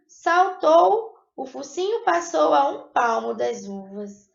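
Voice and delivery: storybook reading to a class, a touch dramatic; lightly dramatized story reading; fable read aloud. A narrator's reading. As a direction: read the fox fable to pupils.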